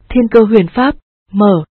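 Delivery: incantation. Acted. Casting a spell to open door.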